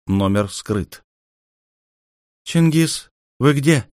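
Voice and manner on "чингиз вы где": higher woman's voice calling over the comm; a woman urgently asking over the radio; a lightly voiced woman calling out; female voice. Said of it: "раздался женский голос".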